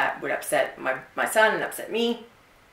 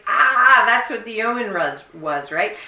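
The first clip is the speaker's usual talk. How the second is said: realization; 4 semitones higher, 5 dB louder than usual. Retold or imitated. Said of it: "I'm like".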